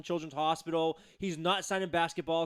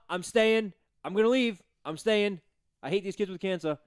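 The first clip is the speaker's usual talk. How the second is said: mock whining; 4 semitones higher, 5 dB louder than usual. Mocking Kyrie's flip-flopping.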